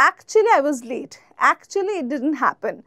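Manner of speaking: slow, soft practice sentences; quiet, careful classroom examples. Shown as a demonstration. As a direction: model them slowly for students. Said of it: "গিলে ফেলতে পারি".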